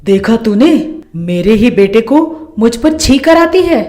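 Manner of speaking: lightly voiced accusing mother-in-law; a touch of indignant nagging; scolding mother-in-law. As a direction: take the daughter-in-law to task.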